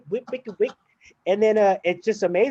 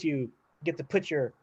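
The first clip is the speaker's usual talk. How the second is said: words cut by a burp; 6 dB quieter than usual. Real, not acted. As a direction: talk through a rising burp. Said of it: "Chipotle burp".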